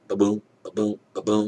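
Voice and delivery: steady, softened pulse thumps; imitated heartbeat. Imitating the pulse monitor at the ankle, steady heartbeat. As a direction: beat out an even ba-boom. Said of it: "he's like".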